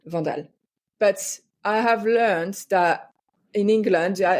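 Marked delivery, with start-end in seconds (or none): 0.1-0.5 "Vandal" again, softly, French "vahn-dahl"; "Vandal" repeated quietly with a French nasal a; French pronunciation. Shown as a demonstration. Guest repeats her surname for the host, French pronunciation. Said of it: "if I say it the way I would say it's French".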